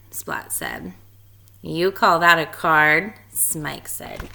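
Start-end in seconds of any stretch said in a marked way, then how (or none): 1.6-3.1 slow smug sneer. Acted. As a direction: sneer at the small card. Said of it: "Spike said smugly".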